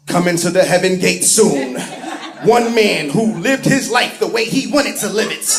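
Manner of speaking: mild movie-trailer narrator; a light take on the trailer announcer. Retold or imitated. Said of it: "the guy that does the commercials for the movies".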